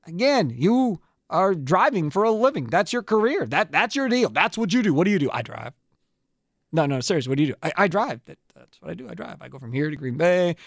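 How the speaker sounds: upbeat host-read commercial; radio ad read. Acted. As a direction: sell it like a radio spot.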